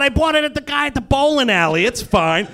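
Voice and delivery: high, loud, hurried reassurance; playing Styles. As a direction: brush off the worry in a loud, high voice. Acting Styles reassuring Scott.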